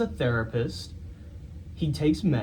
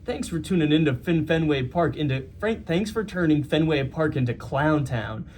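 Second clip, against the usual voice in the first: put-on New York accent; 3 semitones higher than usual. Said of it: "And now his final tweet".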